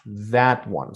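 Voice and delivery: "that" leaned on, "one" dropping away; stress on THAT. Shown as a demonstration. Teacher singling out one, stress on "that". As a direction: press on "that" in "that one". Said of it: "Not the other ones".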